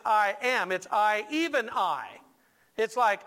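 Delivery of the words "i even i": "I, even I" slowed, leaning on each "I"; emphatic doubled I. Shown as a demonstration. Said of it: "These phrases are very emphatic".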